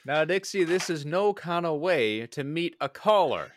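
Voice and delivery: smooth-talking debt collector; Western gambler voice. Acted. Player voices gambler character.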